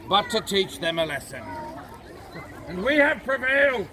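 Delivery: stiff Victorian officer oratory; rousing patriotic speech. Acted. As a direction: address the crowd with imperial pomp.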